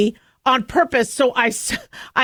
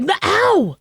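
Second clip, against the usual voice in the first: retold yell; 6 semitones higher than usual. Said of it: "I yelled".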